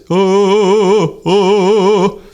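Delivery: high, pushed, strained "Oh"; strained demo of bad technique. Shown as a demonstration. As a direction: show the wrong, squeezed sound. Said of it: "you don't wanna go like this".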